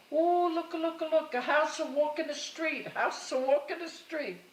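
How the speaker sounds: high, loud, excited cries of look, look; excited mother. Retold or imitated. Mother spotting a trailer passing the house, high and excited. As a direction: mimic an old mother amazed by a trailer going by.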